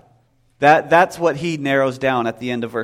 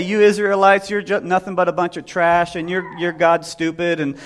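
mocking taunt; 2 semitones higher than usual. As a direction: jeer at the Israelites. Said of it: "just going out there just mocking and belittling".

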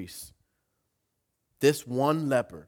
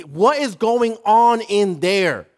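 high, slow, drawn-out loud cry; loud exclamation; 9 semitones higher, 13 dB louder, slower than usual. Acted. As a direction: cry out like a neighbor astonished by the noise. Neighbors exclaiming at the noise.

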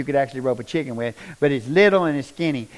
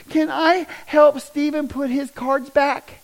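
put-on high, slow, childlike ask; voicing a little boy; 11 semitones higher, slower than usual. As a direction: gently ask like a small boy in class. Little classmate Casey quoted.

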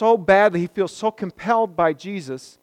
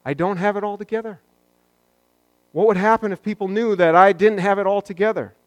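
voicing an anxious believer; 5 semitones higher, 4 dB louder, faster than usual. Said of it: "It's probably a pretty common one".

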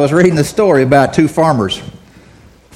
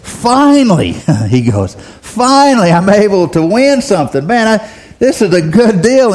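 ecstatic farmer; 3 semitones higher than usual. Acted. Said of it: "Farmer Dale is ecstatic".

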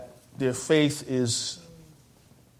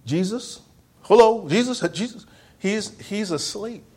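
calling Jesus; 5 semitones higher than usual. Pretend.

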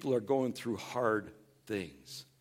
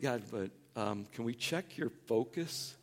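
a hint of God asking, steady and searching; God gently checking in; 3 semitones higher, 4 dB louder than usual. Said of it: "And I think".

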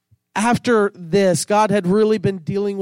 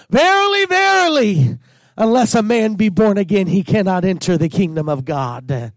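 solemn Jesus quote; 2 semitones lower than usual. Retold or imitated. Preacher voicing Jesus speaking to Nicodemus, solemn proclamation. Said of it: "when Jesus was talking to Nicodemus, he said".

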